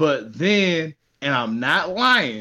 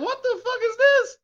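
pitched way up in disbelief, fast; high, fast incredulous rant; incredulous outburst. Real, not acted. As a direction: rant about how absurd it got. Outraged recap of absurd movie.

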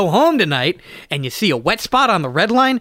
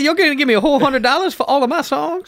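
put-on character voice; 8 semitones higher than usual. Impression bit, far voice.

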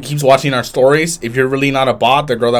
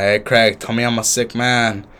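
imitating drunk self. Retelling a drunk video to co-host, mock drunken plea. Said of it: "I was slurring my words".

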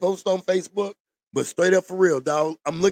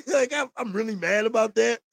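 laughing; 4 semitones higher than usual. Real, not acted. Sarcastic claim while laughing.

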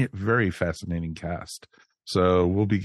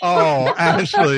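high, loud playful dismay; loud, drawn-out groaning reproach; groaning at a pun; 9 semitones higher, 11 dB louder, much slower than usual. Real, not acted. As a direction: scold a friend for an awful pun.

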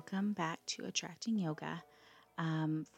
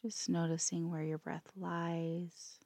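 calm, unhurried yoga nidra guidance with long pauses; guided meditation; 2 semitones higher than usual. Acted. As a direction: let each phrase settle before gently giving the next.

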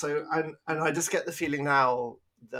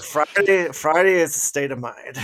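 imitating Texas accent; 3 semitones higher, 9 dB louder than usual. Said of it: "It gets more Texas every week".

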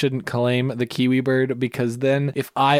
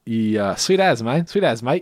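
mock New Zealander; 4 semitones lower than usual. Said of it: "then people would be like".

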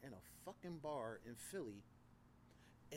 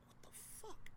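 softer voiceless mutter of disbelief; whispered what the fuck; 7 dB quieter than usual. Retold or imitated. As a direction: breathe it out, stunned at himself. Retold reaction to his own arrogance.

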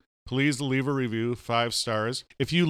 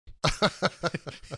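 laugh noise; 5 semitones higher, 3 dB quieter than usual. Shown as a demonstration. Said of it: "That's all I do. I just make noises".

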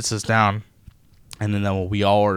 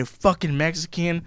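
slow, higher sneer imitating a rude customer; mocking customer slur; 6 semitones higher, 4 dB quieter, slower than usual. Retelling a customer's insult, slow higher sneer. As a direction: spit it out like the hostile customer did. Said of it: "He looked at me".

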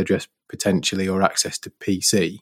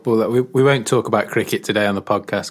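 laughing while talking. Real, not acted. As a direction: joke about cricket, laughing through the words. Teasing joke about cricket.

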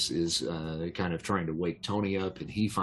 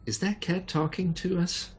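surprised question; 11 semitones higher than usual. Retold or imitated. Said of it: "she says".

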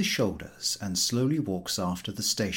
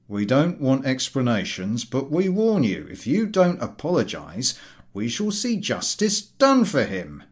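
louder, stern rebuke; stern engineer; 4 semitones higher, 5 dB louder than usual. Acted. Engineer to the ticket collector, stern and threatening. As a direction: threaten a complaint coldly.

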